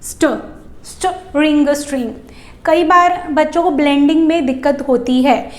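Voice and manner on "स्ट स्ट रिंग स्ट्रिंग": स्ट said twice, then रिंग, then स्ट्रिंग; teacher blending a three-letter cluster. Shown as a demonstration. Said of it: "रिंग में add किया".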